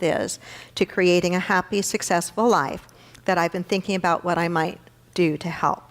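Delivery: measured, composed letter reading; reading a letter aloud. Real, not acted. Minister reading her letter to the congregation's millennials, composed and measured. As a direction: read it out sincerely to those it addresses.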